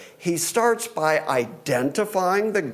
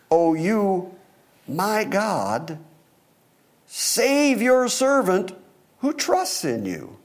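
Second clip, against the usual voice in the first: higher, deliberately paced psalm reading; scripture reading; 5 semitones higher, slower than usual. Acted. Preacher reads David's plea to save his servant, measured scripture reading. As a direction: lift the plea, pausing between phrases.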